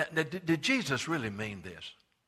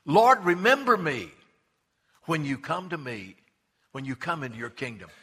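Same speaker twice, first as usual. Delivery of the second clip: pleading thief; 7 dB louder than usual. Acted.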